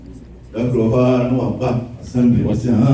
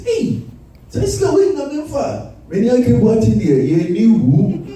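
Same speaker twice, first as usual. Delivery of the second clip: high mock shout; 9 semitones higher than usual. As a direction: shout it high like a cheeky boy. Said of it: "I say".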